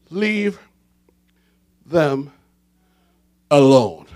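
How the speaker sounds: solemn voice of God. Acted. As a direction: drop low and let each word hang. God's words quoted in sermon.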